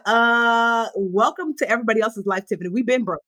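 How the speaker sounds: lightly voiced amused best friend; friend's amused voice. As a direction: laugh off her worry. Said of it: "she was like".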